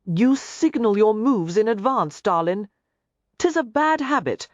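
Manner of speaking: a light Irish lilt, murmured near her ear; whiskey-warm brogue. A narrator's reading. Ransom holding Garrett, speaking close in an Irish brogue. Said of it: "The beguiling, whiskey-warm voice fell against her ear".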